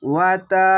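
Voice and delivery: ওয়াতা said short and quick, no stretch; quick recitation. Shown as a demonstration. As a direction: clip ওয়াতা short and fast. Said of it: "ওয়াতা অনেক দ্রুত পড়তে হবে".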